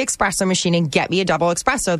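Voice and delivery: both times "espresso" said as "ek-spresso". Real, not acted. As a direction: slip a k into each "espresso". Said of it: "It's not ek".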